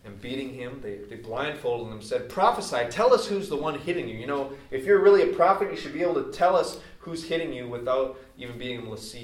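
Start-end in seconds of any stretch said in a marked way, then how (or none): 2.3-9.2 loud, high taunting jeer, much louder at the start; mocking guards. Guards mocking blindfolded Jesus, loud high jeering taunt. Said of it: "were mocking him".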